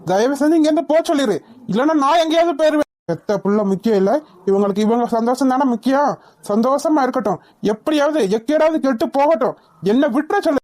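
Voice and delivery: bitter, angry refusal, rising and falling. Acted. Son telling Kishore to send them away, angry. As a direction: reject them with contained anger. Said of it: "அவன் தான் கோவமா இருக்கான்னு".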